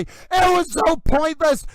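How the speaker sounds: slow outraged shout; furious yell. Real, not acted. Livestreamer yelling about a pointless move, slow angry shout. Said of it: "you heard me yelling".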